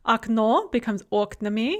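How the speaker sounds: "okno" stressed on the last o, "oknami" on the first; stress shift. Shown as a demonstration. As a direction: move the stress forward to the start in "oknami". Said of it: "note the stress shift".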